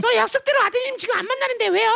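high, chirpy protest; innocently puzzled sister. Acted. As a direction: insist blithely that the promise is kept. Sister answers the mother's call.

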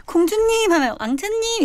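high, singsong name call; lightly acted child's pet-name call; calling a playmate. Showing how childhood friends called each other, high calling voice.

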